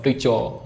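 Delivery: "टीचर" said as "टीचो"; "टीचर" ending on an open o-like vowel; barely-there R. Shown as a demonstration. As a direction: leave out the final R of "टीचर". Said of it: "पता ही नहीं चलता आर बोला है".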